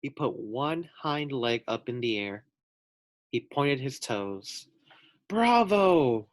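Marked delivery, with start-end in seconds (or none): 5.3-6.3 high, loud bravo; shouted bravo. Acted. Fans shouting praise at the pig's trick, loud and high. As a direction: shout it like an excited fan. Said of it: "shouted the fans".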